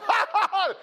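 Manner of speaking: loud, high mock laugh; exaggerated ha-ha-ha, played for the crowd; imitated laughter. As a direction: act out a big belly laugh. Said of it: "my laughter went from".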